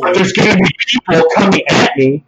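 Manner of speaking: racing ahead, too loud for the mic; loud and excited. Real, not acted. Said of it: "just calm down a little bit".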